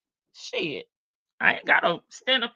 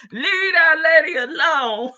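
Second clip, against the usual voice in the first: laughing plea; 6 semitones higher, 6 dB louder than usual. Real, not acted.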